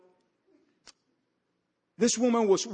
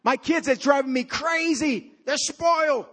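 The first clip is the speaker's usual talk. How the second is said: higher-pitched, acted exasperation; exasperated parent; 5 semitones higher than usual. Preacher voicing a parent's complaint about the kids, mock exasperation.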